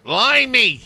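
high, loud mock Scottish cry; poging tot Schots accent. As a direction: belt out a bad Scottish accent. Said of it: "what accent that was supposed to be".

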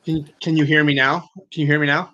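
choppy robotic voice over a bad line; glitching robot voice on a video call. Real, not acted. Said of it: "it sound like a robot".

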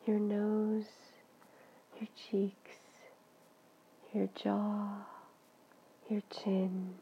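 soothing body-scan guidance, phrase by phrase; guided meditation. Real, not acted. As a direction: guide them gently and unhurriedly into relaxation.

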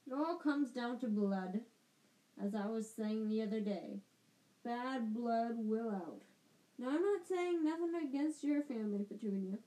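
lightly voiced bossy aunt; a hint of a pompous aunt; Aunt Marge voice. Aunt Marge on bad blood.

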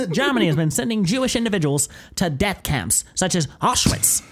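slow, measured wartime announcer; old radio newsreader. Retold or imitated. Friend parodying old radio news, slow announcer voice. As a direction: read grim headlines like an old broadcast. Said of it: "super slow because their old microphones".

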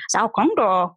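"Sao con đồ" with a falling tone on "con"; Vietnamese phrase. Shown as a demonstration. Learner of Vietnamese quoting a phrase from her dialogue, falling tone on "con". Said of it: "They say things like".

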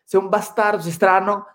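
lightly put-on Swedish-accented Italian; Ibra. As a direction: mimic a Swede's marked Italian accent. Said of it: "si se escucha con el acento de Ibra".

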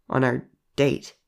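slow, lingering on "date"; savoring. Acted. Telling a new date about the plan, savoring it slowly. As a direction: linger over the words, relishing "date". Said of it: "He savored the word".

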